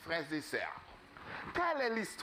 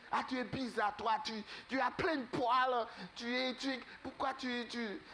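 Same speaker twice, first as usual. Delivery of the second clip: mocking ducklings; 5 semitones higher than usual. Ducklings mocking the odd brother.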